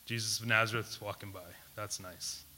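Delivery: mock-casual shrug of a greeting; casual indifference. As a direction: toss it off as no big deal. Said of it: "does he just say".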